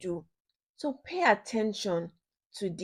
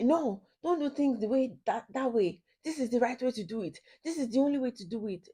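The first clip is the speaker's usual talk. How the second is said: bossy controlling partner; 3 semitones higher, faster than usual. Retold or imitated. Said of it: "Not say".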